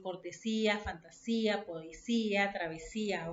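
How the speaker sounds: "cortesía, fantasía, poesía, travesía" with the accent on each í; stress on the í. Shown as a demonstration. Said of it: "Como donde lleva este, este acento".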